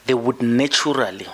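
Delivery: NATURALLY said with a little extra push; stress on naturally. Real, not acted. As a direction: underline the word naturally. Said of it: "I emphasize the word naturally".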